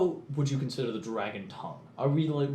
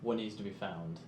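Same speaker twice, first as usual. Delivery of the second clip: speaking dragon tongue; 3 semitones lower, 10 dB quieter than usual. Acted. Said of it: "I say in dragon to him".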